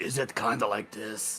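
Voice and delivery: rough, raspy. Testing what another speaker means by raspy, raspy voice. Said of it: "define raspy".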